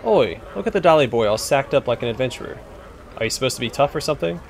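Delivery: a lightly voiced rough cockney thug taunting; cockney bully. Bully jeering at the adventurer, light rough cockney voice. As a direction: sneer it like a street tough.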